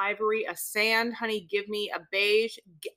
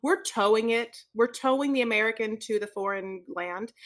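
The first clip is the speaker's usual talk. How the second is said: announcer title read. Acted. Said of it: "do the title of this for me".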